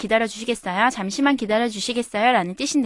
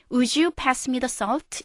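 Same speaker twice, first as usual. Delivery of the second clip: very slow, gentle asking at the table; polite request; much slower than usual. Shown as a demonstration. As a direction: ask the friend nicely, slowly. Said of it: "이렇게 공손하게 부탁하는".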